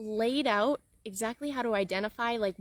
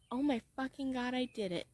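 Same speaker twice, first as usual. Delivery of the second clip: softer, hushed disbelief; awed quiet; 6 dB quieter than usual. Retold or imitated. Coach imagining reaching her goal, hushed and awestruck. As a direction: breathe it out in quiet awe. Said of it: "I think".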